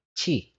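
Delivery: chi like cheese without the se; teacher voice, say chi clearly; pronounce chi. Shown as a demonstration. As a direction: say it as chi, a short ch sound then ee. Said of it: "pronunciation yan is".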